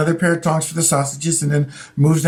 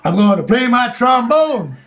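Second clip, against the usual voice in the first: slow, higher, lightly voiced performer; mock performer announcing; 5 semitones higher than usual. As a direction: announce the trombone slowly, hammed-up. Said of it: "He'd go".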